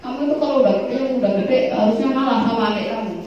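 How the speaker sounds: mild mock scold; nagging mother. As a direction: mum lecturing the older child, lightly. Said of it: "kalau dibilangin gini".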